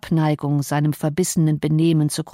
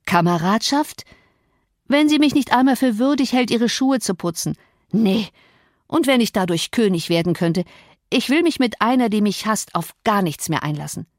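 wounded pride, starting on an incredulous question; lightly voiced offended Cathy; 3 semitones higher than usual. Cathy answers the housekeeper, mildly indignant. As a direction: scorn the offer, lightly acted.

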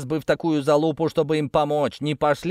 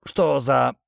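hoarse croak; much slower than usual. A narrator's reading. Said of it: "прохрипел я".

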